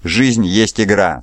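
slow, grave recitation of a verse; dark verse recited slowly; reciting a poem. A narrator's reading. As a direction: speak the line slowly like an old poem. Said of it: "произнёс начало последнего мрачного отрывка".

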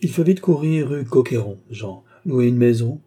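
animated urging; urgent. Acted. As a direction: hurry him along eagerly. Countess urges her brother on.

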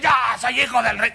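shouted proud boast; mock boast. Preacher mocks believers boasting to God, shouted. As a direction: crow it like a spoiled child.

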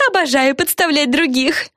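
high, cheerful confession; mischievous girl. A narrator's reading. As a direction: relish the mischief. Yana's line.

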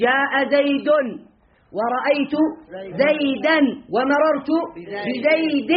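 slow, clear reading of the examples with each case ending set apart; slow demo reading. Shown as a demonstration. Grammar teacher slowly reading examples to his class. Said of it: "التغير لفظي أم تقديري".

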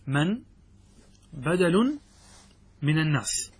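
من، بدل، من الناس said word by word with long pauses; slow dictation. Shown as a demonstration. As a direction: dictate each word separately for note-taking. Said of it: "أن نقول". (إملاء بطيء كلمة كلمة مع وقفات)

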